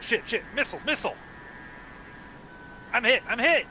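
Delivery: high panicked shouting; yelling in real panic, pitch way up; man down shout. Real, not acted. Missile hits him mid dogfight.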